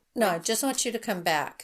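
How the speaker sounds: emotionless, scripted, read-off-a-teleprompter delivery. Imitating a suspect's televised plea for his family's return: imitating a flat emotionless tone. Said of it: "just like in that tone".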